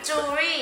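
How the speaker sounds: "jewelry" in two syllables, softly repeated; correct pronunciation. Shown as a demonstration. Teacher repeating the right reading for learners, "jewelry" softly in two syllables. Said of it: "จริงๆแล้วมันอ่านว่า jewelry".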